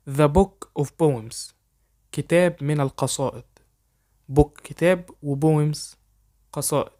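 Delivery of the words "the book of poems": very slow, careful English for learners to copy; slow dictation pace; slow model sentence. Shown as a demonstration. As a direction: spell it out slowly so students can repeat. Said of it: "حاول تقلدني".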